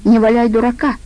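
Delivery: a touch of irritation; angry retort. Acted. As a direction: scold him for playing dumb. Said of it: "рассердилась Аида".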